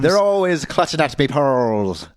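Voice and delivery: lightly voiced pirate accent; a hint of a pirate growl. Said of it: "now I sound like a fucking pirate".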